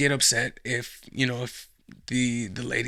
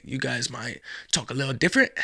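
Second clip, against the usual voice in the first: badly faked British accent; horrible British accent. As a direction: put on a clumsy British accent. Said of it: "That was a horrible accent".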